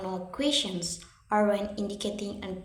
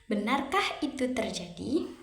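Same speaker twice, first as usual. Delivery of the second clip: "Benarkah itu terjadi" with the pitch going up and down; rise-fall intonation. Shown as a demonstration. Teacher showing a question of surprise or disbelief, rise-fall intonation on "Benarkah itu terjadi". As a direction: lift and drop the tune across "Benarkah itu terjadi". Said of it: "intonasi naik turun atau rise fall".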